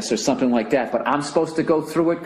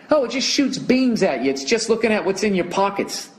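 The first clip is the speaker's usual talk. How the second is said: mocking; 5 semitones higher than usual. Mocking the official line.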